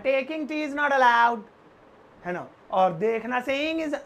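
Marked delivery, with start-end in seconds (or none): 0.0-1.4 slow, drawn-out teacher's example; slow clear demo. Shown as a demonstration. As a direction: lay each word out for the class. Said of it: "चाय पीना मना". (धीमे-धीमे उदाहरण बोलना)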